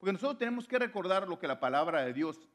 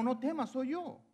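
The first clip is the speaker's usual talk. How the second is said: high, imitated call of reassurance; encouraging; 7 semitones higher than usual. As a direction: hearten frightened friends in a raised pitch. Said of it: "les dio ánimo".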